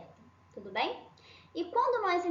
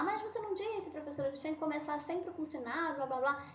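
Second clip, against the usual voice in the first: aluno contestando; 2 semitones higher than usual. Acted. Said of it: "E aí vocês vão falar". (imitando de leve um aluno que contesta)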